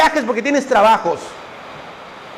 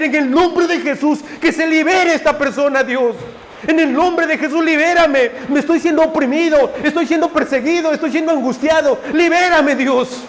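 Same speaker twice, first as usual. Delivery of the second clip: fervent prayer; 3 semitones higher than usual. Retold or imitated. Voiced believer crying out in prayer.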